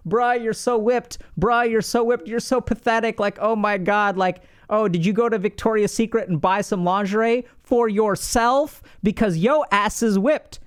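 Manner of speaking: hammed-up buddy ribbing a whipped friend; teasing friends. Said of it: "They're like".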